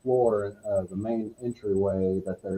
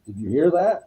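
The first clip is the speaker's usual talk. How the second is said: startled question; 8 semitones higher, 5 dB louder than usual. Retold or imitated. Retells friend's startled question.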